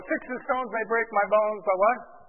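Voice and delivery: put-on high, slow sing-song child's chant; playground taunt. Kids in the park taunting each other, in a high sing-song chant. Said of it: "kids in the park would say".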